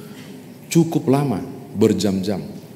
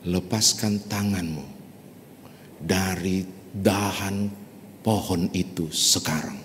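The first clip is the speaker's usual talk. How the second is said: quiet calm command; 2 semitones lower, 9 dB quieter than usual. Acted. God commands letting go.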